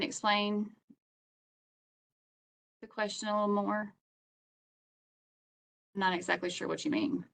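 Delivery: choppy robotic call audio; glitchy, breaking-up connection. Real, not acted. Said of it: "you sound like a robot".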